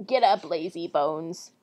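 put-on old lady witch. Witch rousing Gretel, slow low old lady voice. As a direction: draw it out low like an old woman. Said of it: "my old lady voice is gone".

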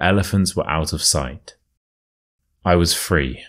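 storyteller reading a true tale; story narration. A narrator's reading. Reads the story aloud.

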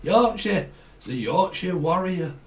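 light put-on Yorkshire accent; playful mock Yorkshire. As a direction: lean into a Yorkshire lilt. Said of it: "Someone could speak like that as well".

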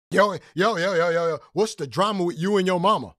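exaggerated hype interviewer voice; mocking interviewer. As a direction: ham up a cheesy host. Imitating Cali's interview question.

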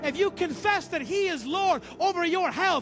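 fervent preaching. Real, not acted. Preacher declaring Jesus Lord over health and finances, fervent. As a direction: drive each phrase home to the congregation. Preacher builds to full force.

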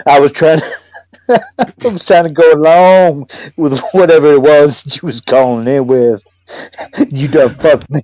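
loud laughing protest; laughing shout. Real, not acted. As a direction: yell it through laughter.

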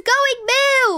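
call out. Pretend. Round starts, calling out.

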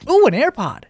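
high, cooing mock excitement; mock delighted discovery. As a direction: coo over a find, hammed-up. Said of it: "not gonna be like".

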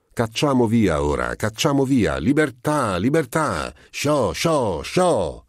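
high, exultant cries of release; excited shooing. A narrator's reading. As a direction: shoo the birds out in high, repeated cries. Shooing birds out to freedom. (grida eccitate per scacciare gli uccelli)

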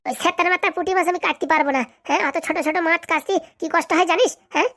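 cross, complaining wife; mildly annoyed grumbling; irritated refusal. Acted. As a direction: refuse testily, demanding agreement. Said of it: "এই চেতে যাচ্ছ কেন তুমি?".

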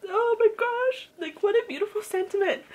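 real overwhelmed, high-pitched awe; choked up. Real, not acted. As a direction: squeeze it out through welling tears. Overwhelmed by moving book passage.

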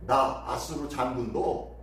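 lightly acted general's claim; mocking boast. Assyrian general claims God sent him, mild mockery. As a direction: boast with emphatic rhetorical questions. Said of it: "마지막으로 이렇게 조롱합니다".

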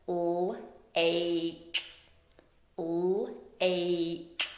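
L-ache said as separate sounds, l then ache; sounds chopped apart. Shown as a demonstration. Teacher chopping L-ache apart for the class. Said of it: "So chop it with me".

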